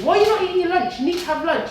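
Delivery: lightly voiced daughter nagging; mock concerned daughter asking; daughter's question. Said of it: "my daughter said to me".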